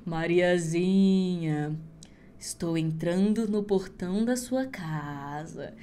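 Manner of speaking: very slow, low, drawn-out eerie call; creepy witch call. Acted. Witch calls Mariazinha from the forest, slow and eerie. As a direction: stretch the name like a ghost in the dark.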